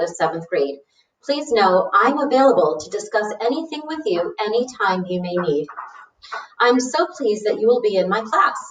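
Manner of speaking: lightly voiced, pleased teacher; welcoming teacher. Teacher replying to Arthur's letter, lightly voiced welcome. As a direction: read it as a teacher welcoming a new student.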